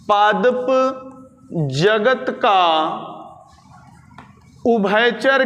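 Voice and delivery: word by word with long pauses; slow dictation. Shown as a demonstration. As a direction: dictate it piece by piece for note-takers. Repeats phrase slowly for note-taking. (धीरे-धीरे, रुक-रुक कर लिखवाते हुए)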